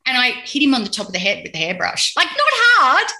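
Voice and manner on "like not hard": laughing protest. Real, not acted. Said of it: "defends herself laughing".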